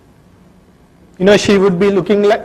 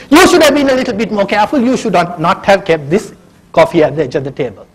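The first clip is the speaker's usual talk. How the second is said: blaming. Pretend. Husband blaming wife, still angry.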